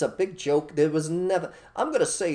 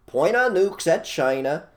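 tough challenge; 3 semitones higher, 6 dB louder than usual. Retold or imitated. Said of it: "simply say to them".

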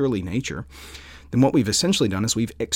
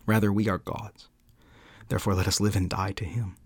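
measured devotional reading, building then settling; solemn quote reading. Acted. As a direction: read it out like a heartfelt creed, with deliberate pauses. Reads Calvin quotation aloud.

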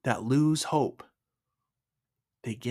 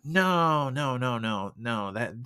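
incredulous refusal; slower than usual. Retold or imitated. Man balking at God's odd instruction, incredulous refusal. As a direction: balk at an absurd idea.

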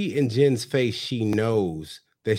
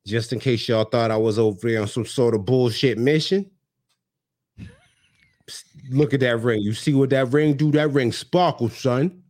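Jen in my head. Retold or imitated. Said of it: "that's how she talk".

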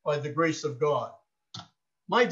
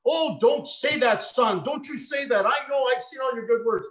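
father protesting; 5 semitones higher than usual. Retold or imitated. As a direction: gently push back like a loving dad.

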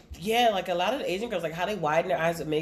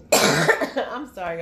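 coughing and choking; much slower than usual. Real, not acted. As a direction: talk through a choke after coughing. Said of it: "I'm choking".

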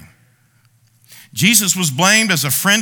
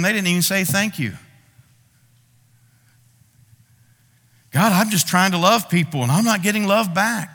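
petty whining. Pretend. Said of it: "the pettiness in that".

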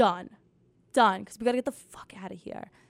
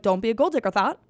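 aggressive; 2 semitones lower, faster than usual. Retold or imitated. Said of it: "it's so aggressive".

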